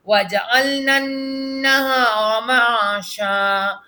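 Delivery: slow, measured tilawat; slow melodic Quran recitation. Acted. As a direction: chant each verse slowly and evenly for the pupil. Leads the recitation.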